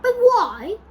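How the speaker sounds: high, loud protest; acted scream, high and forceful. A narrator's reading. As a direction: cry out in alarm. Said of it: "they all screamed at once".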